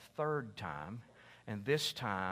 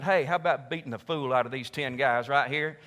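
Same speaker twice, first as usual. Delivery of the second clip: vengeful ruler's order; 8 dB louder than usual. Pretend. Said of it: "called in the royal guard and said".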